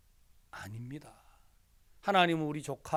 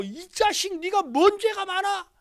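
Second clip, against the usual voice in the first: much higher, mock-indignant mother; a hint of an exasperated mum; scolding mother; 14 semitones higher, 7 dB louder than usual. Mother scolding daughter in hospital. (딸을 꾸짖는 어머니 흉내)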